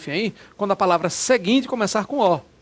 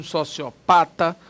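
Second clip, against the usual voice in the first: slow spelled-out word; much slower than usual. Shown as a demonstration. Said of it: "Tá vendo aqui, ó?".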